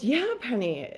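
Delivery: imitating an irritated reply; softly weary, put-upon answer; annoyed. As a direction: answer as if pestered. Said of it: "like, annoyed".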